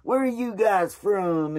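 slow, mock Southern cowboy drawl; cowboy accent. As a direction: imitate a friendly cowboy accent, unhurried. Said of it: "has that accent in there".

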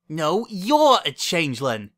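heated retort. A narrator's reading. Bon Bon arguing with her double, heated retort. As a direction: throw the accusation back forcefully. Quarrel, accusation thrown back.

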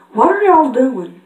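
Applejack. Acted. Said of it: "I'm Red Applejack".

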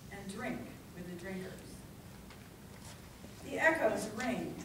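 measured, declamatory poem reading with long pauses; dramatic public poetry reading; poetry recitation. Acted. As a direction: recite it line by line, letting each phrase land. Recites a Whitman poem to audience.

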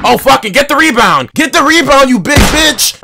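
loud, high-pitched frustrated outburst; angry yelling. Real, not acted. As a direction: yell it at the game in exasperation. Rage at the game.

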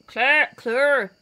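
"Claire" tried in a Scottish accent; tentative Scottish "Claire". Shown as a demonstration. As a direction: say "Claire" as a Scot might, experimenting. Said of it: "How would you say Claire in a Scottish accent?".

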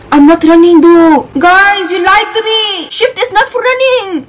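high-pitched, wailing complaint; indignant protest. Real, not acted. Player accusing viewers of lying about controls, indignant. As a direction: build into a high, indignant wail.

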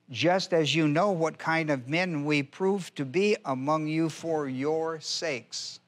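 slow, measured reading of the verse; slow deliberate Bible reading; solemn scripture reading. Acted. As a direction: read it out like holy text, unhurried. Reads scripture verse aloud.

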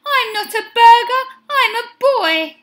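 high, fast, loud protest; shout. A narrator's reading. Benny to the cows after him, high quick shout. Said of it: "shouted Benny".

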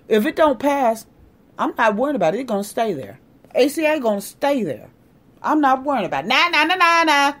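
dismissive imitation with a childish sing-song taunt; mocking nonchalance. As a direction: shrug it off in mock indifference. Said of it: "That's exactly how he's acting".

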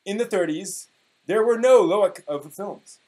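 mock-grand reading of an old forum post; dramatic reading. Podcast host reading an old anime forum post, mock-dramatic. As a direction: read it like a solemn proclamation. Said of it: "I will be giving you a dramatic reading".

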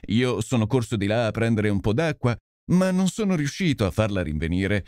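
a lightly voiced, sheepish policeman; guilty constable owning up, half ashamed; contrite constable. Constable confesses to Holmes and Lestrade, sheepish and contrite.

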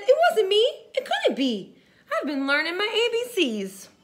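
a lightly voiced alligator, with a laugh. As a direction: deny it cheekily as the alligator. Alligator voiced in read story.

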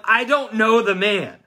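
slow heated oath, pushing them away; swearing denial. Acted. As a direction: spit it out under oath, furious. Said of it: "began to call down curses and he swore".

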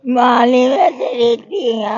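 crying. Real, not acted. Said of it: "ਫਿਰ ਰੋਣਾ ਨਹੀਂ ਪਰ".

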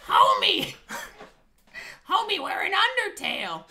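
high, loud cartoon dad voice; Homer Simpson voice. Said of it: "can you do a Marge voice or a Homer".

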